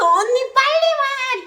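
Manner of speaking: high, loud, frantic yell with a crying edge; desperate call. Retold or imitated. Calling the sister from the bus door, loud and tearful. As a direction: yell at her to hurry, near tears.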